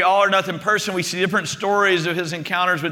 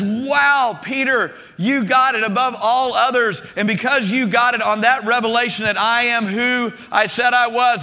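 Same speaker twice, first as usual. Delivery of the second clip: higher, mildly excited congratulation; retold praise; 3 semitones higher than usual. Jesus to Peter after his revelation, retold praise. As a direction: praise him with lifted, emphatic pitch. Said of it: "And Jesus says".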